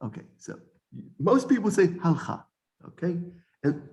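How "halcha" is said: halcha in two syllables, HAL-kha; "halcha" with no vowel after the l; common mispronunciation. Shown as a demonstration. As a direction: run the l straight into the kh in halcha. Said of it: "I say that's wrong".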